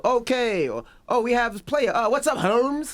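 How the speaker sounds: imitated Mexican-accented announcer, pitched high; mock Mexican accent. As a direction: pitch up into a hammed-up Mexican accent, stretching the last words. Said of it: "What happened if they go that accent?".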